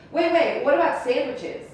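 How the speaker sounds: high, loud, pleading wait; mock desperate guy calling after her; desperate plea. Guy calling her back, high desperate plea.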